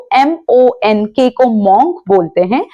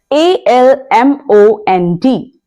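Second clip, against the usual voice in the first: letter by letter, spaced and slow; slowly spelt letters; slow spelling; much slower than usual. Shown as a demonstration. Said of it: "spelling the word".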